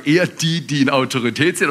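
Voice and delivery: quick, smug command from someone in charge; self-important boss. Retold or imitated. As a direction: rattle it off like a pleased boss. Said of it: "wenn wir in Autorität sind und sagen".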